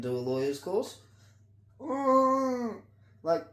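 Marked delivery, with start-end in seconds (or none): 1.8-2.8 loud, high-pitched drawn-out "mm"; pointed high hum. Real, not acted. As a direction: hum it high and hard, sustained. Mocking hum after rhetorical questions.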